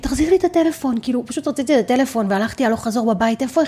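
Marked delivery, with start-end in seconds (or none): 0.0-0.9 put-on high, tearful crying scream. Recounting a fight with him over her phone, retelling crying and screaming. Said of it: "בוכה וצועקת".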